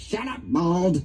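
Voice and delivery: high squawky parrot imitation.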